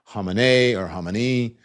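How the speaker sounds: "Khamenei or Khamenei" as hah-meh-NAY or hah-meh-NEE; current pronunciation. Shown as a demonstration. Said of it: "we know it's".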